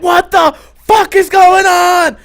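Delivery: high, slow, loud panicked yell. Retold or imitated. Reliving the owl strike, a high panicked yell. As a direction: shout it in shock in the car.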